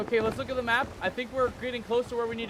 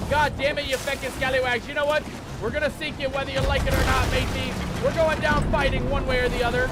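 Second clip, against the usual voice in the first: raised, combative pirate ranting; defiant cursing; 3 semitones higher, 4 dB louder than usual. Real, not acted. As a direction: curse the enemy as you go down. Cursing attackers while going down.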